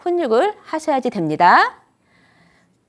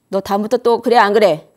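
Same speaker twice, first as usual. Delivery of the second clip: harsh scolding. Retold or imitated. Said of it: "이렇게 강압적으로 하면은".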